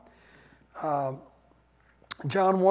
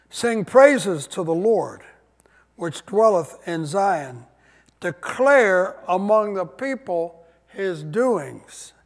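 slow, solemn reading of the verse; scripture reading; 4 dB louder, slower than usual. Acted. Pastor reading the psalm to the congregation, slow and solemn. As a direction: read it out slowly to the church.

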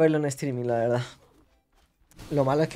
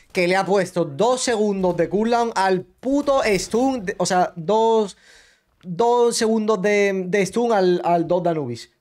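slow, raised-pitch furious rant; angry rant; 3 semitones higher, slower than usual. Real, not acted. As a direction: rant at the developers, drawing it out. Ranting at the game devs.

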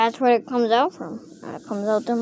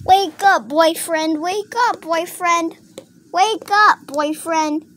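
high sing-out call, repeated; pretend wake-up call; 5 semitones higher, slower than usual. Toy rousing her boyfriend, high insistent call. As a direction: nag a sleeper in a high voice.

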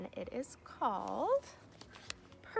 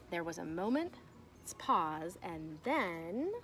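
put-on reading to children. Teacher reading a picture book to her class, storybook voice. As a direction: read it like story time for little kids.

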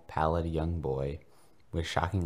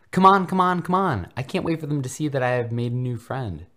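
put-on much higher, louder excited boy voice; eager urging; 8 semitones higher, 8 dB louder than usual. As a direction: hurry him along, bouncing with excitement. Ron eagerly hurrying his friend.

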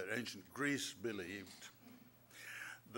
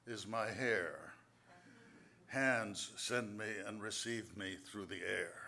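slow, measured recital of verse; poem reading. Acted. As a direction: read each line like a riddle to savour. Reads his riddle poem.

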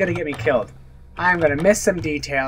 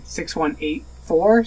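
unsure guess; slower than usual. Real, not acted. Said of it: "I'm gonna go with that's a six".

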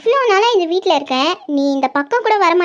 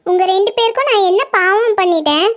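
whiny plea.

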